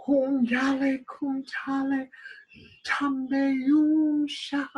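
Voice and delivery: quiet, slow chanted spell; soft incantation. Acted. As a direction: murmur the magic words slowly. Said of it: "Sarah started speaking the words".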